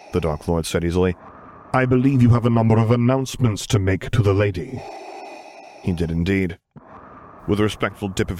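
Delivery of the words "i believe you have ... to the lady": cold, measured imperial authority; Darth Vader voice. Acted.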